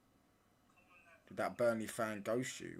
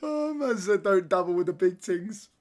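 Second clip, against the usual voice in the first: incredulous; 6 semitones higher, 12 dB louder than usual. Real, not acted. Mocking a viewer, shouting.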